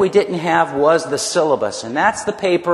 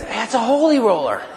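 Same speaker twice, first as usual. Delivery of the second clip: a hint of grandma, higher, laughing; imitating grandmother; 6 semitones higher than usual. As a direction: tease it the way grandma did, with a laugh. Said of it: "I'll never forget my grandmother going".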